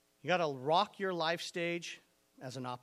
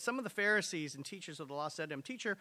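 reading the passage out loud and driving it home; forceful scripture reading; 2 semitones higher, 3 dB louder than usual. Acted. Pastor reading Matthew to the church, preaching loud. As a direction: preach the verses with rising force. Reads the Bible passage aloud.

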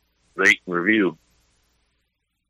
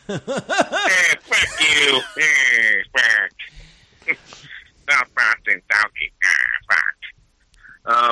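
attempted Irish gangster voice; 3 semitones higher, much slower than usual. Podcast guest cursing at the host, amateur Irish gangster accent. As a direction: do a shaky-accented Irish gangster, not very well. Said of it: "I was trying to do my Irish gangster voice".

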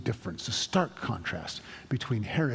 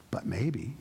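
"But maybe." whispered, unvoiced, teasing; 2 semitones lower than usual. Real, not acted. Pastor hinting at a calling to the church, whispered "But maybe.". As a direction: breathe "But maybe." as a hushed tease. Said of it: "whispered repeat".

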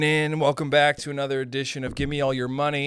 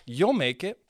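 mock rich boss; 8 semitones higher, slower than usual. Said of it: "they wanna tell you, like".

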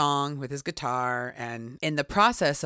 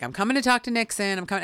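insistent, excited; 6 semitones higher, faster than usual. Retold or imitated. Pilot warned, he insists on Nixon.

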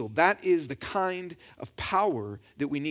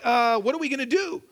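nervous; 5 semitones higher than usual. Acted. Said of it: "I know that you're nervous".

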